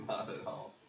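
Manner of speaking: loud, breaking into laughter; loud words through a laugh; laughing denial. Real, not acted. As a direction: deny it while laughing, unable to keep a straight face. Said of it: "You can't say that with a straight face".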